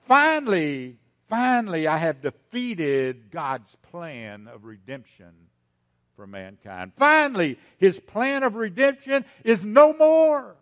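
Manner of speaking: Satan boasting of thwarting redemption, loud gloat. Acted. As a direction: crow like the devil who thinks he's won. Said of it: "Satan proclaims".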